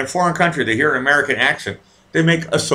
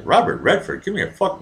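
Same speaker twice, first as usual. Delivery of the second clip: retold incredulity; 3 semitones higher than usual. Retold disbelief at the flattery.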